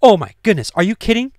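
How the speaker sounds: high, loud astonished outcry; astonished shout, reacting to the passage; stunned disbelief. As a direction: blurt it out in amazement. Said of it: "and I was like".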